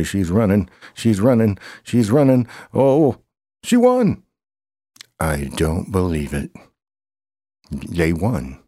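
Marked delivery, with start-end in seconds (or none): 0.0-3.2 rising from lively to loud, higher each time; getting louder as the horse pulls ahead; building excitement. Pretend. Cheering horse down the stretch. 3.6-4.2 very high squeal of delight; shrieking joy at the finish line; excited shriek. Pretend. Horse wins the race.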